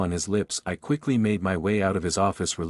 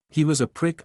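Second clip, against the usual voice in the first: scornful, pitched up high; scoffing; 7 semitones higher than usual. A narrator's reading. She scoffs at her boss, scornful. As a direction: spit it out with contempt. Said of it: "I scoff".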